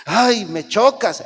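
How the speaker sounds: a fed-up spouse dismissing the other; annoyed scoff. Pretend. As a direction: drag it out like you're sick of them.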